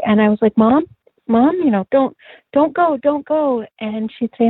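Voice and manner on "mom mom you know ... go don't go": higher, pleading voice, imitating the dream; begging. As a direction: beg her not to hang up, rising higher. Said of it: "I was begging her not to go".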